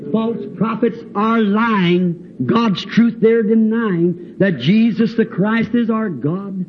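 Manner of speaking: slow, measured hymn lines; old hymn recitation. Retold or imitated. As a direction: recite like verse, drawing it out. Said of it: "As the old song says".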